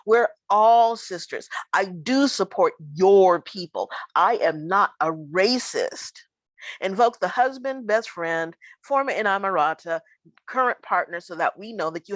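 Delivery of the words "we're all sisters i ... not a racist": mock Karen code words. Performing a Karen to a Black woman, mock-pleading. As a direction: ham up a Karen insisting she's no racist. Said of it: "use the code words".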